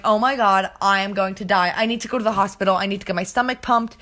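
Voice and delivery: mild mock panic, picking up pace; urgent retelling of a panicked moment; retold freak-out. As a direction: act out freaking out, words starting to rush. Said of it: "I'm freaking out".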